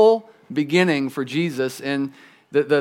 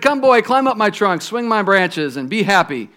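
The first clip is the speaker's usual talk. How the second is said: joyful tree; 3 semitones higher than usual. Acted. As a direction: invite the boy to play, full of joy. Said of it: "the tree shook with joy".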